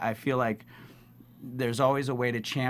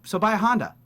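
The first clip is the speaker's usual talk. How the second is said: higher, louder punchy ad line; frozen ad-read ending; 9 semitones higher, 6 dB louder than usual. Shown as a demonstration. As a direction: hit the line then freeze. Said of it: "They'll go".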